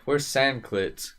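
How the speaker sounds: slow, drawn-out "Where's Sandclit?"; slow imitation of him. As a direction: slowly mimic his question. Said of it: "he would be like".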